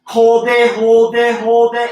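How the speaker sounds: strained, loud coaching call; shaking with effort. Real, not acted. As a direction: push it out while straining. Coach calling during the hold.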